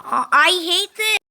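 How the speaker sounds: loud, high, fed-up yell at the game; frustrated outburst. Real, not acted. Gamer failing a jump yells in real frustration.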